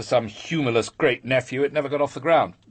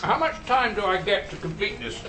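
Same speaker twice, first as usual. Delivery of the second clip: talking through a mouthful of food; words muffled round a bite; mouth full; 3 semitones higher than usual. Real, not acted. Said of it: "Don't talk with your mouth full".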